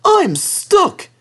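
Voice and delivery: high, startled little engine; dismayed engine. Acted. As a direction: blurt it out in dismay. Thomas stuck.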